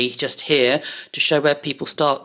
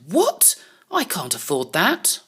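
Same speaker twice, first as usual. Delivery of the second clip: shocked. Acted. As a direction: gasp out the What in disbelief. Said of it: "I think he looks a little bit shocked".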